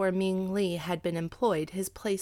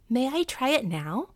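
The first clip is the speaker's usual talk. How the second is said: higher question with a steep rising end; eager; 6 semitones higher, 3 dB louder than usual. A narrator's reading. Widow wanting to try the magic beetle, eager. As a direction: ask keenly, itching to begin. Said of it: "she asked eagerly".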